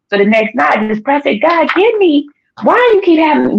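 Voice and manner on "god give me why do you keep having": raised-pitch, insistent appeal; pleading question. Retold or imitated. Praying to God about recurring dreams, pleading. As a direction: press God for an answer, voice lifted high.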